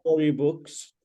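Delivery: slow, careful dictation. Shown as a demonstration. Teacher has student repeat after them, slowly. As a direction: finish the phrase slowly for a learner. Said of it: "Say slowly".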